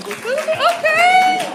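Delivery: very high, drawn-out okay; approving ladies. Retold or imitated. Ladies in the crowd approving of the vasectomy, high squeal. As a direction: squeal it in mock feminine approval. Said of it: "All the ladies are like".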